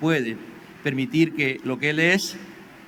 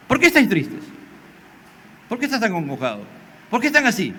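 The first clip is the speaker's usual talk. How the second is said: a concerned cry, pitched up; 6 semitones higher, faster than usual. Acted. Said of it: "él entra, se pone".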